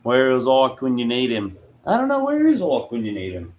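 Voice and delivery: playful put-on Australian accent. Streamer wondering where an absent friend is, in a mock Australian accent. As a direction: try on an Aussie accent. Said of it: "How's my, uh, Australian accent there".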